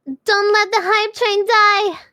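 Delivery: loud slow hype call; rallying shout. Real, not acted. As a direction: belt it out to chat. Repeats line as shout.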